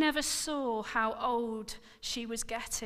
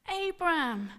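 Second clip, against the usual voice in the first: high, louder call of his name; crying out; 6 semitones higher, 6 dB louder than usual. Acted. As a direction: cry his name in anguish. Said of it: "she cried".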